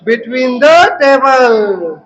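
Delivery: put-on very slow, each word drawn out for the children; slow model answer. Shown as a demonstration. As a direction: spell it out slowly so kids can repeat. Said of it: "तो क्या हो गया ये?". (धीरे-धीरे, हर शब्द खींचकर)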